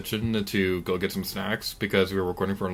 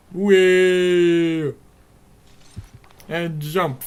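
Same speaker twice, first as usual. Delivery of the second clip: high loud joyful whee; gleeful whee; 7 semitones higher, 7 dB louder, much slower than usual. Acted. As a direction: squeal with delight. Swinging on grappling hook.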